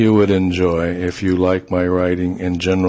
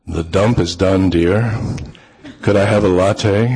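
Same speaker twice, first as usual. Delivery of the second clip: deepest voice. Retold or imitated. Man answering the woman's teasing, mildly deepened voice. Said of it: "in my deepest voice".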